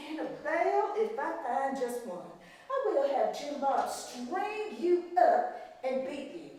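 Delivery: a hint of a cold, scolding mistress; stern plantation mistress. Mistress scolding the maid over the broken vase, coldly.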